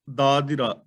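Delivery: ਦਾਦਿਰਾ with a light short i after ਦ, not ਦਾਦਰਾ; ਦਾਦਿਰਾ, neither ਦਾਦੀਰਾ nor ਦਾਦਰਾ; careful pronunciation. Shown as a demonstration. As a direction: say ਦਾਦਿਰਾ with a slight sihari on the second ਦ. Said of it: "ਦੱਦੇ ਨਾਲ ਥੋੜ੍ਹੀ ਜਿਹੀ ਸਿਹਾਰੀ ਦੀ ਆਵਾਜ਼".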